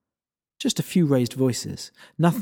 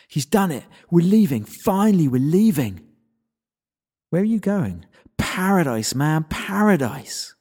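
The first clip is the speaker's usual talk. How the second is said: higher, louder, triumphant dude; gloating human; 3 semitones higher, 3 dB louder than usual. Acted. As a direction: crow it like he's won. Arrogant human gloating, leaving.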